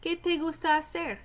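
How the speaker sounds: careful, clear reading of a short Spanish passage; reading a Spanish text aloud. Acted. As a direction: read it out for the class, word by word. Reads Spanish passage as Martín.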